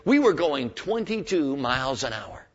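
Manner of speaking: touch of pride in a retold line; a bit proud. Lady correcting the policeman in a joke, a bit proud. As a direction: state it with mild, measured pride. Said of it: "she said a bit proudly".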